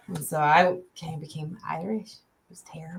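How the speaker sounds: whispering. Real, not acted. Trailing whisper about accent.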